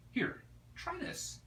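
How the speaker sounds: high, slow whispered coax. Acted. Ania coaxes Spirit to try mango, slow whisper. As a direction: coax it out in a breath.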